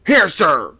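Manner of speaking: frightened mate answering the captain; shaky call. A narrator's reading. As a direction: call out unsteadily. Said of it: "called the first mate, shakily".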